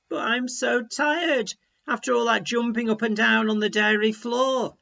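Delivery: whiny tired complaint; complaining. Acted. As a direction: moan about being worn out. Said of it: "complained the second frog".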